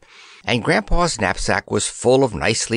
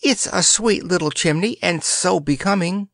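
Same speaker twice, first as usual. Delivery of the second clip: put-on sweet fairy girl; 8 semitones higher than usual. Eartha comforting Grandpa.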